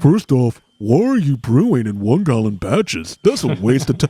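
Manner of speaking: put-on scolding voice. Imitating an absent co-host answering a listener question: imitating Todd. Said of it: "let me imitate Todd".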